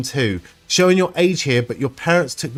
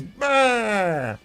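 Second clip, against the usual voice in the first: mock raspberry; 5 semitones higher, 4 dB quieter than usual. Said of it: "all I read is".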